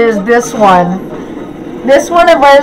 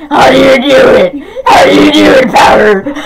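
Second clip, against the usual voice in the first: shouting. Shown as a demonstration. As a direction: yell it in disbelief. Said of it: "repeated louder".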